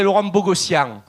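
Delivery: "Bogossian" with an open Marseille A; Marseille accent. Shown as a demonstration. Comic showing the Marseille way of saying his name. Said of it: "Le Marseillais te dirait".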